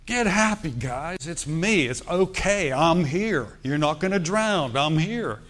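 casual reassurance. Retold or imitated. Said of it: "He's basically saying".

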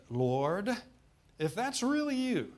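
high, drawn-out mock-nervous plea; acting out an uncertain appeal, pitch leaping up; quivering plea. Preacher as Peter calling to Jesus on the water, acted quivering plea. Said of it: "you can almost hear his voice quivering".

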